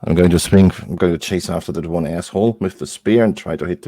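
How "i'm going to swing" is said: ordinary talk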